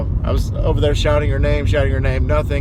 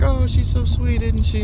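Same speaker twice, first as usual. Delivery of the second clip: imitated doting old lady; 10 semitones higher than usual. Old lady fond of her cat, imitated high and doting.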